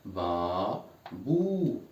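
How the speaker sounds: ba, bou said slowly and clearly; teacher modeling Arabic syllables; syllable demo. Shown as a demonstration. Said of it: "Répétez".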